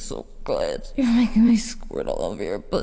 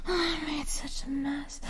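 afterglow whisper; 5 semitones higher, 9 dB quieter than usual. Acted.

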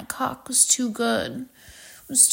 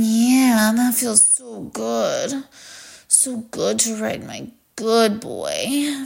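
sultry dominant lover; 3 dB louder than usual. Acted. Dominant role voice held throughout.

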